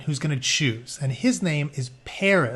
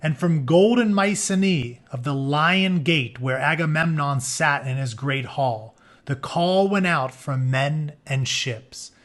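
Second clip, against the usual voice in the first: measured storybook read, some phrases drawn out slow; story narration. Acted. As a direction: read the myth to the class like an epic. Reads story book aloud.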